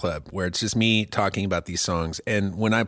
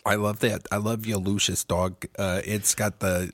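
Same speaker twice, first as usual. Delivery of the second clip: put-on New York accent; 5 dB quieter than usual. Admiring co-host's fake dog, put-on New York accent. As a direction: coo lightly as a comic New Yorker. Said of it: "to actually do this accent right".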